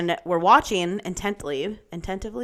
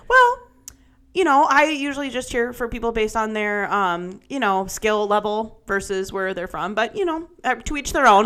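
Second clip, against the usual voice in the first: higher, hedging voice of reason; imitating a reasonable friend; 4 semitones higher than usual. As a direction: play the diplomatic friend, opening on a high 'well'. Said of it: "Oh, Becky, voice of reason".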